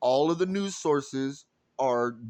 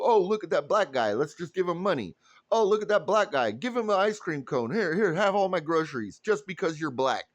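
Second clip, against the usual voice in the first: mocking do-gooder; 4 semitones higher than usual. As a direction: ham up a patronizing handout-giver. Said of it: "I'm not going to just go".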